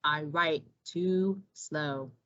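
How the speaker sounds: put-on low and slow, a sleepy old turtle; unhurried low turtle; slow tortoise voice. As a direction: drag each word like a tired tortoise. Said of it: "said Tortuga".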